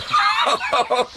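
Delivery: sudden high whooping laugh. Real, not acted. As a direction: break out laughing for real. Bursts out laughing mid-scene.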